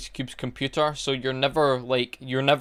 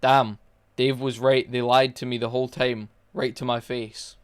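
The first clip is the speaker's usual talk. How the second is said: Ice Cube's lifeless read. Retold or imitated. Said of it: "I'm gonna read it exactly how he said it".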